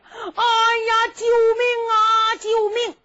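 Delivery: high, desperate calls; a beaten old prince screaming for help; cry for help. Acted. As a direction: shout for rescue.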